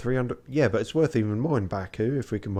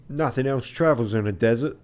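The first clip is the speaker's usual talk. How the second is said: lightly put-on French accent; mock French accent; passable French accent; 5 dB louder than usual. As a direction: answer as a crewman with a French accent. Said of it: "This is my passable French accent".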